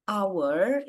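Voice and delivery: "hour" with the H left silent, starting on the vowel. Shown as a demonstration. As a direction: say "hour" like "our", no H sound. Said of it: "itu karena dia silent H". ("hour" diucapkan tanpa bunyi H)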